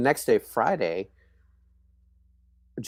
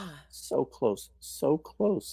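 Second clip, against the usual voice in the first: rueful sigh; 4 semitones higher, 6 dB quieter, much slower than usual. Retold or imitated. Heart dropping at losing the girl.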